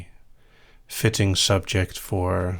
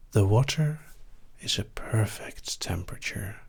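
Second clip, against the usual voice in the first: right in your ear. Acted. Floating induction, guided relaxation.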